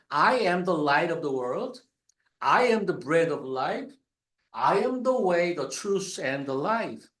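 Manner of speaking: very slow, each "I am" weighted; stress on I am. Shown as a demonstration. Preacher reciting Jesus's "I am" sayings, slow and stressed. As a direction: intone the "I am" sayings one by one. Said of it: "I am을 계속 썼어요".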